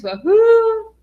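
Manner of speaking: high, loud cheer; woohoo cheer. Real, not acted. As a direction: cheer like at a party. Cheering a viewer's comment.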